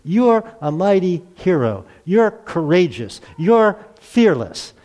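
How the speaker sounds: slow, proclaiming God voice; God declaring. Retold or imitated. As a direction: announce it slowly, like a promise from above. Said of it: "God says to Gideon".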